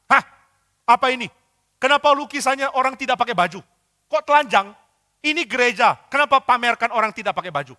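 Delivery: high, loud, scandalised questions; a cleric appalled at naked figures in a church; outraged church leader. Acted. Church leader scolding about the nude painting, outraged and loud. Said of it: "pemimpin ibadah dari gereja di Roma marah".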